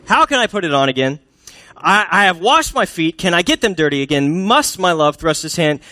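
put-upon protest with high punched stresses; exasperated refusal. Acted. Wife refusing her husband at the door, exasperated. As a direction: act out an indignant wife balking. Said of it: "put these next few verses in the tone that I think she's saying this in".

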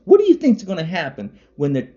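high, loud, heated tirade; loud rant. Real, not acted. Angry vlogger shouts warning at Trumpers, loud. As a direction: keep up the angry attack.

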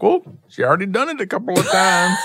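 high sassy drawled voice; mock sassy voice. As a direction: say it like a sassy gossip. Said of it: "I'm like".

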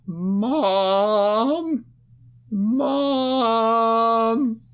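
put-on child yelling for her mother at night. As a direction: shout for mom from bed. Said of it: "she yelled".

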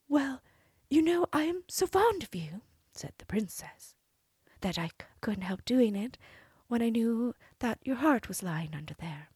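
high, sweet princess voice; cartoon princess. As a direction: play the innocent princess. Princess flattering the giant.

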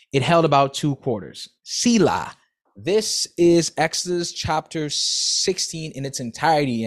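steady, clear Bible reading voice; scripture reading. Acted. Reader to listeners, reading Exodus steadily aloud. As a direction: read the passage aloud with care.

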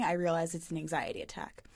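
hushed whispered confession. Real, not acted. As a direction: drop to a whisper. Confessing anxiety.

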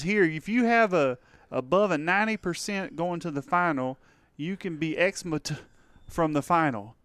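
put-on rodeo student's Texas accent, reading aloud. Rodeo student reading syllabus to classmate, Texas accent. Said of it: "do it in the right accent".

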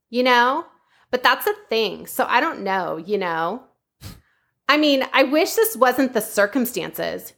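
a hint of Valley Girl lilt, mocking a young woman from the Valley; Valley Girl accent. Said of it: "It is gonna be in a Valley Girl accent".

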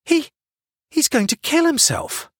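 high, stammering protest; urgent, worried young bystander; alarmed. A narrator's reading. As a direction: blurt it out in alarm after a false start. Hannah alarmed about man on roof.

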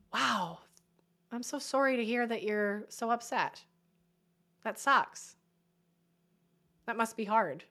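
sit with their pain, softly; gentle validating. Shown as a demonstration. Coach shows friend the right way to comfort, gently.

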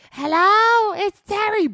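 mock her own poorly voicemail; fake sick voice. Voicemail played back by the manager, fake sick voice. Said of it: "and it's like".

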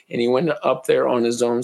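losing my voice, raspy; hoarse, strained words; raspy whisper. Real, not acted. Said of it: "Sorry, I'm losing my voice".

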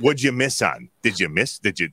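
thick Wisconsin accent. Real, not acted. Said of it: "your thick Wisconsin accent".

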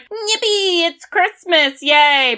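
high, gleeful cheer; mock kid excitement. Charlie on Christmas morning, high cheering. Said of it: "And then Charlie is like".

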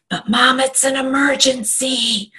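put-on high, pleading child's voice, a touch slow; imitating daughter. Daughter pleading with mom during live training, lightly mimicked high child voice. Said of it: "I start hearing the".

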